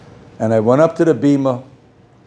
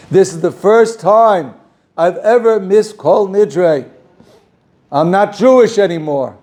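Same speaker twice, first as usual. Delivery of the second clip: high, slow, pained lament; tearful man telling the rabbi; crying; 7 semitones higher, 4 dB louder, slower than usual. Retold or imitated. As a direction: let it break with grief. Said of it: "that's why I'm crying".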